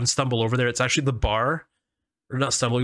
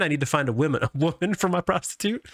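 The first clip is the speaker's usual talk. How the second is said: Deep South pimp voice; 4 semitones higher than usual. Acted. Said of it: "my pimp voice is like Deep South".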